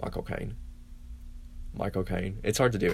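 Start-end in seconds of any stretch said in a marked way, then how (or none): 0.0-0.5 breathy whisper of the name in a British accent; whispered British Michael Caine. Shown as a demonstration. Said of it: "in a British accent". 1.7-2.4 soft, quiet British accent said aloud; spoken British Michael Caine; voiced British accent. Shown as a demonstration. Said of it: "in a British accent".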